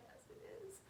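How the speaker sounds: high, very soft mock weeping; imitated tearful voice. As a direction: squeak it out as if in tears. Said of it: "like, crying, like".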